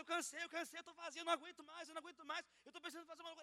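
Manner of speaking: a touch of weary despair, voice lifted; mild echo of a tired girl pouring out; retold sad outpouring. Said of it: "ela começou a desabafar assim". (desabafo cansado, levemente encenado)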